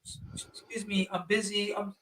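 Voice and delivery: a hint of a shy polite woman; lightly voiced Japanese woman declining politely; mock polite refusal. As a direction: softly brush him off, lightly imitated. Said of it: "whatever broken English they know".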